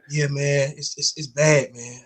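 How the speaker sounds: hushed, somber quote; mock grave. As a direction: break bad news quietly. Grave news retold in story.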